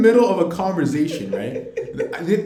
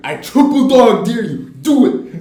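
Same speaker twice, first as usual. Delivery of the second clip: mock dare; 5 semitones higher, 9 dB louder than usual. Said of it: "And it's like".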